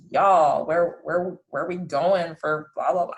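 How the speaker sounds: lightly put-on American drawl with "y'all"; stereotyped American accent. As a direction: imitate a clichéd American accent. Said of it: "impression about Americans before moving, that they all, all talk like".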